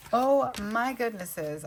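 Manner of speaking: high, loud, drawn-out exclamation; like Spencer. Retold or imitated. Crafter unconsciously echoing someone's catchphrase over her page, drawn-out amazement. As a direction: stretch it out in high-pitched amazement. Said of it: "I just totally said that like Spencer".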